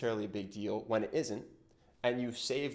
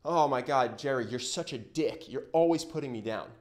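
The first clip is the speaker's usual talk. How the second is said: mock insult. Friend calling out Jerry's jokes, mock exasperated. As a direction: snap at him like he's always at it. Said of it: "If you go".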